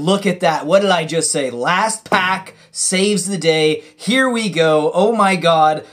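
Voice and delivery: loud, thrilled yelling over the big pull; near-screaming with joy at the lucky card; real excited shouting. Real, not acted. Opens a fetch land in final pack.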